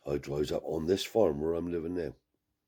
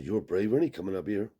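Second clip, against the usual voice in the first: higher, mocking retold taunt; snarky taunt; 5 semitones higher, 5 dB louder than usual. Farm man mocks the lone gypsy, imitated snarky taunt. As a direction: imitate him sneering at the newcomer. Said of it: "the mush gets snarky now".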